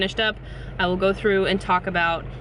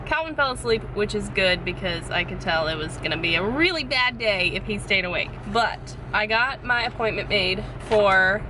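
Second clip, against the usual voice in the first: rain on car roof. Real, not acted. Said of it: "I apologize for the sound. I'm sitting in the car and it is pouring down rain".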